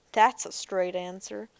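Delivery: dry sarcastic jab. Acted. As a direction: say it with mock approval. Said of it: "she said sarcastically".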